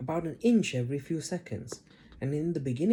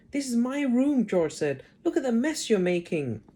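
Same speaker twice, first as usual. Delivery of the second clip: put-on indignant boy; 8 semitones higher, 4 dB louder than usual. George protesting the mess.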